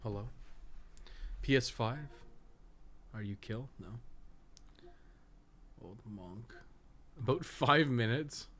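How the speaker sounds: ordinary delivery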